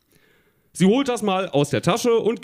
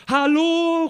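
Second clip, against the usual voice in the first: long, high-pitched hello; calling out; 13 semitones higher than usual. A narrator's reading. Tina calls to the boy, calling out high. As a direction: call it high and drawn out. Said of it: "ruft Tina".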